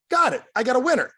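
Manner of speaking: high, loud burst of excitement; punchy, high-pitched mock victory call; re-enacted triumph. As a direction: celebrate it like you just found a prize. Re-enacts spotting a winning recruit.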